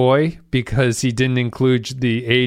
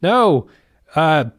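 higher voice with halting restarts; stuttering, unsure impersonator; 5 semitones higher than usual. Acted. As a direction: lightly imitate someone bluffing, hesitant and unsure. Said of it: "unsure of himself speech pattern".

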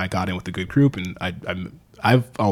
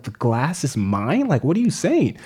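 disbelief; 5 semitones higher, slower than usual. Retold or imitated. Confused reply to the cleaning lady.

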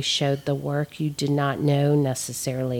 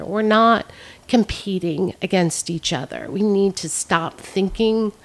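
higher-pitched, heartfelt plea; emotional, impassioned; 4 semitones higher than usual. Real, not acted. Artist urges artists to support each other, emotional. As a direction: push on through real emotion, voice raised in pitch. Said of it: "I'm getting emotional".

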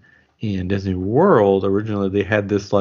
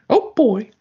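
whispered laugh; 13 semitones higher than usual. Real, not acted. Laughing whisper after the sung line.

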